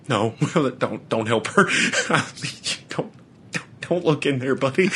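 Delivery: real laughter breaking the warning; laughing so hard the words come out soft; laughing through the words. Real, not acted. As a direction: giggle through "don't help her". Laughing while retelling warning buddy.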